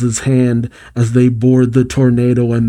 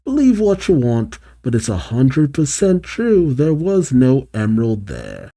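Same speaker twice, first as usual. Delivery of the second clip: Fang. Acted. Fang insisting to Eggman while smiling, breezy. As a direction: pitch up the opening, breezily unbothered. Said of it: "Fang, while still smiling".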